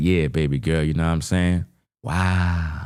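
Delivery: mock boastful voice. Imagining a man flexing his house to lure a woman: imitating a man showing off his house. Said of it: "And he's like".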